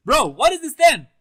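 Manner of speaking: baffled by the power; real shocked exclaim; stunned. Real, not acted. Reacting to stand power.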